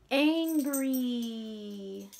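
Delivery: growled angry word. Acted. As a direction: say it like you're mad. Names the angry feeling.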